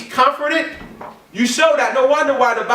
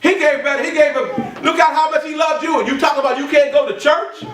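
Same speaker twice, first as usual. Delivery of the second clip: fiery preaching; 3 semitones higher than usual. Acted. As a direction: preach it out to the whole church. Preaching at full force.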